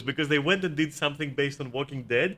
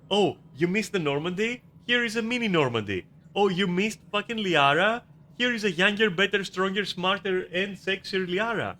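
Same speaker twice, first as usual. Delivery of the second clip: higher-pitched mocking offer to fans; mock sales pitch; 4 semitones higher than usual. Developer placating fans who miss the old crew, mock salesmanship. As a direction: play up a sarcastic, pandering pitch.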